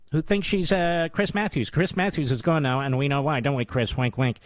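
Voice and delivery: mock rapid patter, easing back down; mocking fast talker. Host mocking a TV rival, mock fast talk. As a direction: rattle it off in imitation of a glib host. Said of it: "who talks like this".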